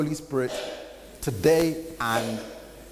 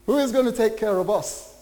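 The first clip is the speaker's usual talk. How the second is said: panicked disciples; 3 semitones higher than usual. Retold or imitated. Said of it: "they were saying".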